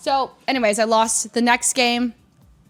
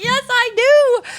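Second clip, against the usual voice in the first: high, slow and louder, mock smug; smug reply; 14 semitones higher, 6 dB louder, slower than usual. To Wolf about her winning slip, hammed-up smug. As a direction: answer like you're flaunting the win. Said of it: "And I was like".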